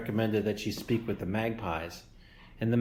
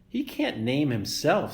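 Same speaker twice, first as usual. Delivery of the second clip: squawking goose; 5 semitones higher, 3 dB louder than usual. Acted. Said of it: "squawked Loudwing".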